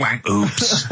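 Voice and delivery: mock cartoon sound effects, lifting on the last; comic sound effects. Shown as a demonstration. Comic shows off for radio, silly sound effects. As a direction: voice a wacky radio sting. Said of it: "I can do sound effects".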